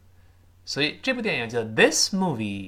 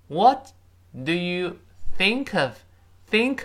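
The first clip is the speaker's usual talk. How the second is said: each word cut off and said high and loud; 5 semitones higher, 3 dB louder, slower than usual. Shown as a demonstration. Teacher splitting the question into words for the class. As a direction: break the phrase up, one word at a time. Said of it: "这个of弱化".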